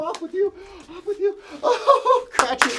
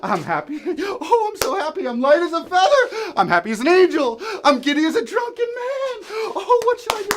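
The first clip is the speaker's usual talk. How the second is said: giddy joy; 2 semitones higher, 4 dB louder than usual. Acted.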